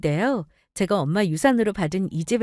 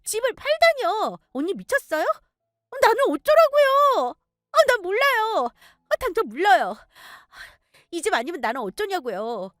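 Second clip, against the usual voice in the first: put-on high, pleading and indignant young woman; shrill protest against losing the house; whiny sister-in-law; 11 semitones higher than usual. Sister-in-law voiced in story. (높은 목소리로 억울하게 따지는 시누이)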